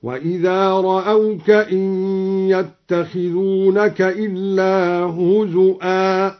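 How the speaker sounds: slow chant, هزؤا with a glottal stop; hamza in هزؤا. Shown as a demonstration. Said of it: "همز الواو هكذا". (همز الواو في هزؤا)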